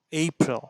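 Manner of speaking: এইপ্রিল with an ei diphthong at the start; correct English way. Shown as a demonstration. Teacher repeating the correct April for students, ei vowel first. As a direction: stretch the ei in এইপ্রিল. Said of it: "উচ্চারণ করুন".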